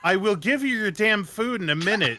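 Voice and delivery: fed up with the pests; exasperated. Acted. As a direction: ranger fed up with begging raccoons, annoyed. Exasperated at begging raccoons.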